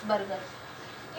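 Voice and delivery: बरगद stretched out very slowly and softly, rising at the end; slow drawn-out reading. Shown as a demonstration. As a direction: read बरगद slowly, like a teacher to a class. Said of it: "जैसे उनको पढ़ते हैं".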